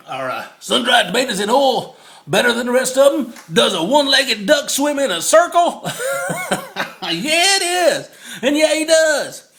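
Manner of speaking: loud, laughing joke delivery; laughing shout. Real, not acted. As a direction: holler the punchline while cracking up. Laughing at his own joke.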